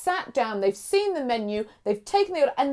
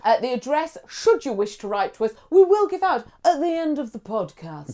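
measured broadcaster delivery; newsreader voice. Acted. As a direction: read it like the news. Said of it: "I like your newsreader voice there".

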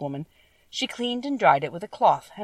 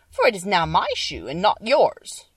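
witch's retort; 5 dB louder than usual. Acted. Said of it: "retorted the witch".

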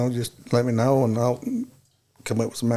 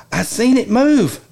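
high, drawn-out startled quote; mock alarm, pitched up and slow; alarmed report; 8 semitones higher, 4 dB louder, slower than usual. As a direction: imitate someone spooked, stretched out and high. Retold startled sighting of skunk.

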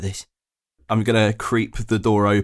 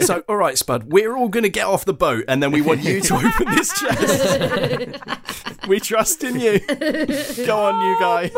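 coaxing character voice; 10 semitones higher than usual. Acted.

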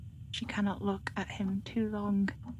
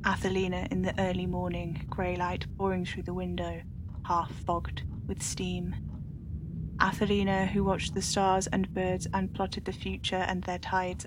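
story narration. A narrator's reading. Narrator reading a dark tale to listeners, hushed.

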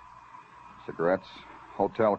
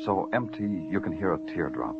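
noir narration. A narrator's reading. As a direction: paint the night city like a tired cop. Hardboiled detective narration over music.

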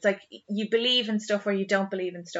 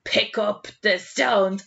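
retold shout; 5 dB louder, much slower than usual. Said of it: "John Taylor started shouting".

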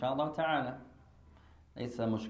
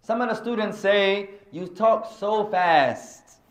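questioning student; 6 semitones higher, 6 dB louder, slower than usual. Retold or imitated. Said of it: "So the question is".

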